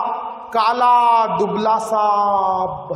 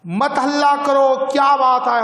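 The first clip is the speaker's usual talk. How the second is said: raised, firm call to stop the fight; constable's shout; 4 semitones higher than usual. Acted. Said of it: "छड़ी हिलाते हुए चिल्लाकर कहा".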